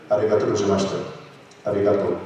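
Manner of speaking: "Arigato" with one light tongue tap on the r; single tap R. Shown as a demonstration. Teacher showing the r in "Arigato" as a single tap. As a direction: flick the r in "Arigato" once. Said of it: "that's a single tap with the tongue".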